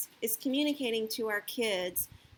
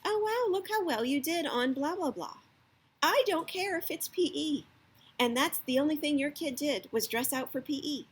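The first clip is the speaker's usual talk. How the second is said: mock delight; 5 semitones higher than usual. Shown as a demonstration. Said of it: "pretend it's like Christmas morning".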